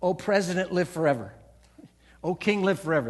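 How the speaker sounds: solemn, measured homage to a king; bow and hail the king; reverent royal address. Shown as a demonstration. Preacher demonstrating how to hail the king. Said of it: "this is how you say it".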